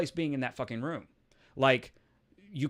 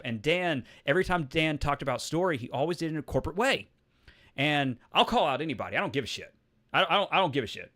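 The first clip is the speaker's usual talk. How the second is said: ordinary delivery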